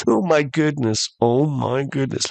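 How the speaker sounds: a touch of alarm on a repeated exclamation; mock scared. Castaway alone on the beach, mock scared. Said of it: "Like, he is scared".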